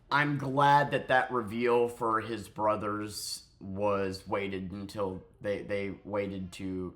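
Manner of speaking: slow, fumbling just-woke-up voice; groggy and tripping over words; sleepy. Real, not acted. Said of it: "I'm sorry, I'm tired. I just woke up".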